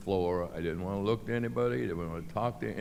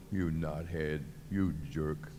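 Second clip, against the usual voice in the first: cussing himself; 3 semitones lower, 5 dB quieter than usual. Retold or imitated. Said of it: "And I'm cussing myself".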